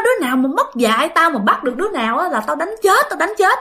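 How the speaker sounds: mock furious neighbor, pitch climbing high; imitated angry threat. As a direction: threaten them like an irate neighbor, lightly acted. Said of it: "ổng chửi quá trời luôn".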